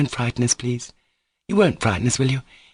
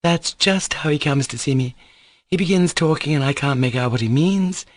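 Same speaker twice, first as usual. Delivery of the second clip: higher, irritated rebuke; reproachful scolding; 6 semitones higher than usual. Acted. Grushenka scolding Mitya for crying, higher and irritated. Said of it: "cried Grushenka reproachfully".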